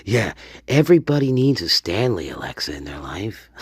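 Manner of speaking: fast joke assistant, dropping away at the end; mock Stanley Alexa. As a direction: pitch the gadget in a fast comic voice. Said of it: "this is Stanley, Alexa".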